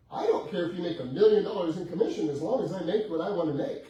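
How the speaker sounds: loud retold quote. Seller insisting to the realtor, in a loud emphatic quote. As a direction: belt out the seller's demand like she's fed up. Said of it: "She goes".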